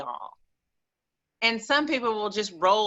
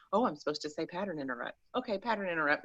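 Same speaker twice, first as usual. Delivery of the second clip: softer, offhand rote compliance; quick, half-hearted self-reminder; mock dutiful recital; 8 dB quieter, much faster than usual. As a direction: toss it off like a box being ticked. Mocking rote, unmeant self-help recital.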